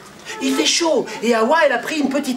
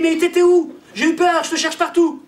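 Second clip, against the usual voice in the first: worried outburst; 7 semitones higher than usual. Acted. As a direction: blurt it out after a fright. Husband finds missing pregnant wife.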